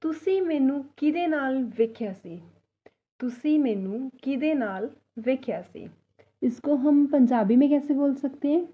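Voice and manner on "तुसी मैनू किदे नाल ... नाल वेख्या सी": slow, careful Punjabi line; teacher dictation pace; slow model sentence. Shown as a demonstration. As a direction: read it slowly twice for learners. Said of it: "तो पूरा sentence कैसे बनेगा".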